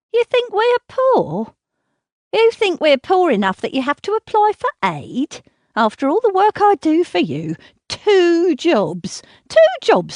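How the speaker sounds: shrill-free, loud, high furious scolding; angry mother. Acted. Mother berates daughter.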